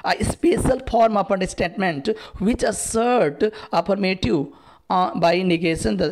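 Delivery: slow, careful quiz-question reading; slow dictation read. Acted. Teacher reading the exam question aloud to students, slow and careful. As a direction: spell it out slowly for the class.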